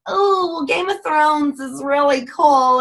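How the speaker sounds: high, slow, dreamy excuse voice; mock excuse-maker. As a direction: play the distracted team member. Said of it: "you go".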